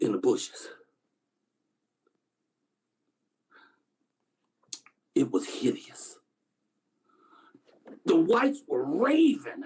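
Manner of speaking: halting recollection with long heavy pauses; haunted witness. Acted. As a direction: grimly recall a childhood horror, groping for words. Actor performs a witness monologue.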